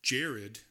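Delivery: Jared ending in a clear D; Jared with a final d sound; misheard name. Shown as a demonstration. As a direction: say Jared as JAIR-ed. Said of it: "thought he said".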